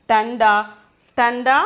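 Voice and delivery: "tanda" with an n before the d; pronunciation of tanda. Shown as a demonstration. Teacher models the Hindi word for cold, "tanda" pronounced clearly. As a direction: say "tanda", ending on an open a. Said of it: "we have to pronounce it as".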